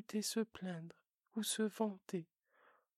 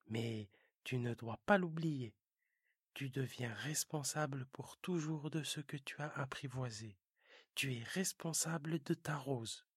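lightly lowered fox voice; a hint of a wise fox teaching; 6 semitones lower than usual. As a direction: fox gently insisting.

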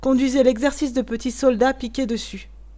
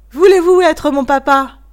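put-on pleading child; 6 semitones higher, 10 dB louder than usual. A narrator's reading. Child begs workman to be father.

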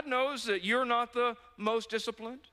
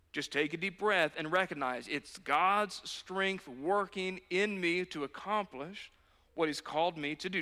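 calming slow reassurance; 2 semitones lower than usual. Shown as a demonstration.

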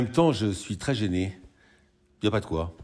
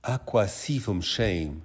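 each word drawn out slowly, teasing; slow mocking quote; slower than usual. Girlfriend slowly repeating the misheard song lyric, teasing. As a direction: spell out his misheard lyric slowly to tease him.

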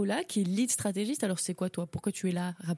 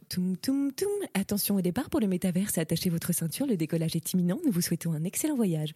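flight attendant. Pretend. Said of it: "en mode".

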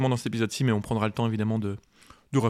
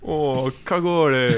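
put-on southern French accent; 3 semitones higher, 5 dB louder, much slower than usual. Mock Marseille slang.

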